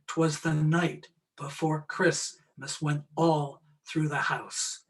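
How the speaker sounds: slow, every third beat hit hard; pounding anapestic beat. Shown as a demonstration. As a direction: chant it like 'Twas the night before Christmas, leaning on "night", "Christ-" and "all". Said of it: "the third beat is accented".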